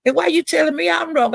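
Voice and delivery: retold heated comeback. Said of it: "And I'm saying".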